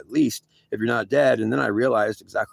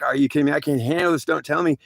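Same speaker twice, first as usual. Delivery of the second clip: panicky plea; 4 semitones higher than usual. Retold or imitated. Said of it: "I'm like".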